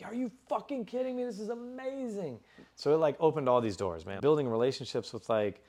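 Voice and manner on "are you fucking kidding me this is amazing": high, excited squeal of disbelief; retelling a giddy reaction to the station; thrilled disbelief. Retold or imitated. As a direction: act out hearing the best news ever. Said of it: "And I was like".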